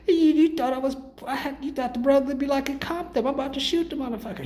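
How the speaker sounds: heated retelling of a confrontation; indignant retort. Retold or imitated. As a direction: snap back offended. Voicing a retold confrontation.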